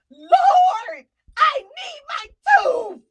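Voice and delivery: high, loud crying shout, slow; desperate cry to God. Retold or imitated. Praying in the shower, loud crying plea for tooth. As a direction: wail it out to the Lord in frustration. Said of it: "and I was like".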